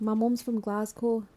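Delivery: slow Scottish accent demo. Shown as a demonstration. Repeating friend's line about Glasgow, slow Scottish accent. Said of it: "I can do a bit of a Scottish accent".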